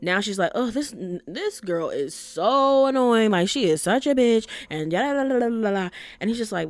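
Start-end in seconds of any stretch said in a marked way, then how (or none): 0.6-5.9 exaggerated gripe, words dragged out; mock an irritated rant trailing into la-la babble; annoyed venting. Girlfriend venting about a girl at work, annoyed.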